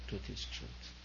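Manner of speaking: truth is truth whispered softly; hushed and gentle; said sweetly. Shown as a demonstration. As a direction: breathe truth is truth gently, almost voiceless. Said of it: "Whether said sweetly or whether said harshly".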